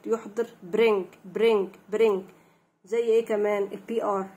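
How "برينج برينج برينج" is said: "برينج" with b and r joined tightly; quick BR blend. Shown as a demonstration. Teacher drilling blended letters, "برينج" with joined BR. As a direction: run b into r in "برينج". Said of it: "لازم أنطق الحرفين كده ورا بعض بسرعة".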